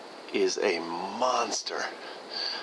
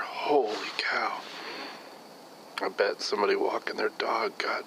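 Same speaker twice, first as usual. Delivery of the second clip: hushed, disgusted whisper; 3 dB quieter than usual. Real, not acted. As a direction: whisper it, repulsed by the stench. Hushed reaction to skunk stench.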